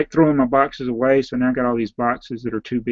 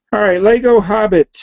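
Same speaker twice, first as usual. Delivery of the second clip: hoarse voice; 7 semitones higher, 6 dB louder than usual. Real, not acted. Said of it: "I sound like I'm losing my voice".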